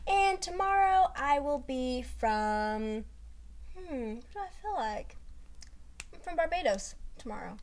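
slow, dreamy, lightly acted stranger; mock worldly poser. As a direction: savour choosing a new homeland. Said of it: "I'm making up some shit from now on".

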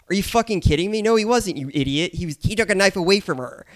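high-pitched, exasperated correction; incredulous retort. Acted. Podcaster correcting recap guests about the knife scene, incredulous. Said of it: "I'm like".

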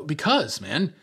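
mock aggressive. Dumped friend snaps at his teasing roommate, mock aggressive. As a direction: imitate an upset roommate snapping back. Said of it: "getting aggressive with him".

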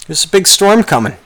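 lightly hammed-up movie heroine warning of weather; Dorothy. Podcaster mimics a film girl warning of a storm, high-pitched mock impression. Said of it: "Like Dorothy".

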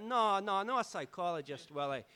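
put-on patiently correcting the drunk; dad's voice. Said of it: "He's like".

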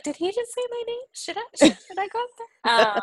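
high, breathless flustered questions; a giddy, panicky whisper-rush of hope. Retold or imitated.

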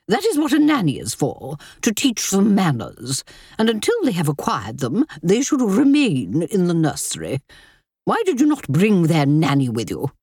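commanding grand dowager; imperious wealthy widow. Acted. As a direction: lay down the law imperiously. Dowager lecturing the family.

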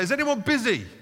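preacher imagines calling out to a crowd, hammed-up; mock public call. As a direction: call out to the room like a street announcer.

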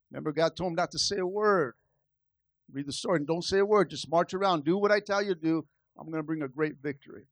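low, soft and quick voice of God; hushed, hurried voice of God giving orders; God's voice. Acted.

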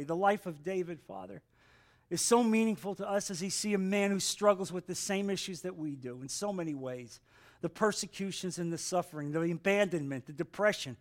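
measured spoken prayer, settled down from preaching; subdued, earnest pulpit prayer; closing prayer. Real, not acted. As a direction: pray aloud to God for the congregation.

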